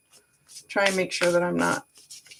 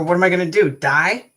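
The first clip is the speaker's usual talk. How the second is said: great grandma's words; 7 dB louder than usual. Retold or imitated. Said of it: "my great grandma used to go".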